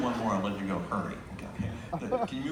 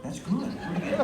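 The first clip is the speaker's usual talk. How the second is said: pitched well above the usual voice; high dummy voice; 7 semitones higher than usual. Acted. Volunteer dummy up on tiptoes, high-pitched voice. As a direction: squeak it up high. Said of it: "Your voice goes higher".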